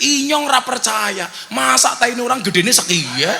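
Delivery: loud, high ngapak protest; disbelieving shout. Acted. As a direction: cry out in comic disbelief. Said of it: "Orang ngapaknya langsung teriak".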